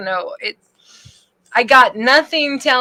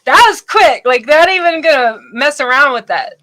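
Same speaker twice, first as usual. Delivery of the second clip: loud playful impersonation; 3 semitones higher, 5 dB louder than usual. Retold or imitated. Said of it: "He's all".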